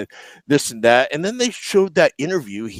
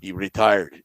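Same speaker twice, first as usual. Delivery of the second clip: put-on low voice slipping into a Russian accent; 5 semitones lower, slower than usual. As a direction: answer tersely, with a mock Russian accent. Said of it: "I went in my Russian voice".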